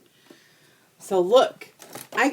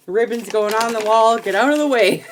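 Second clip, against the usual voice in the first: loud, higher, laughing through a bossy command; mock bossy order; 6 semitones higher, 9 dB louder than usual. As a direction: bark it like a cheerful drill sergeant. Retelling ordering husband aside.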